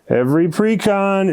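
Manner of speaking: high, emphatic "Every precon"; excited. Real, not acted. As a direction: hype it up. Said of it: "repeated for emphasis".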